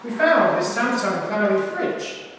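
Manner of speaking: a know-it-all fridge explaining itself; lightly voiced posh fridge. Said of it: "it's also got a rich accent".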